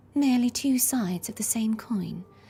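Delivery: light, breathy, effortless voice. Performing a line as Carlotta while another describes her, breathy Carlotta voice. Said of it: "breathy voice".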